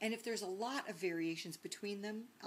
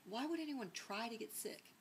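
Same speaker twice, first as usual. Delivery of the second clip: higher-pitched, mildly mock bafflement; baffled question; 5 semitones higher than usual. Northerner replying to her Southern roommate, playfully baffled. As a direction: puzzle over it, lifting the pitch.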